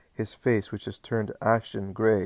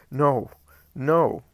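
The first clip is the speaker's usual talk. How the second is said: higher, louder refusal; sharp no; 5 semitones higher, 7 dB louder than usual. Acted. John refusing to picture Jesus' death, loud. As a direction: cut the thought off with a cry. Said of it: "shouts a sharp no".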